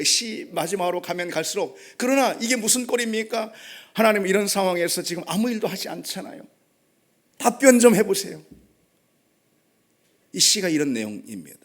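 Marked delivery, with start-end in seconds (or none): 2.0-8.4 pressing God for an answer; fierce demand. Acted. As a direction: challenge God, pushing harder at the end. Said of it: "사납게 하나님을 다그칩니다".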